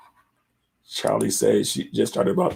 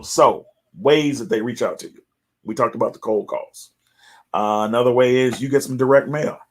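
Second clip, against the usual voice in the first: ordinary talk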